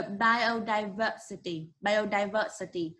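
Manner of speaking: "biodiversity" said twice, stressing the "ver"; stress on V syllable. Shown as a demonstration. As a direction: model "biodiversity" with weight on "ver". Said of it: "on the part of the word V".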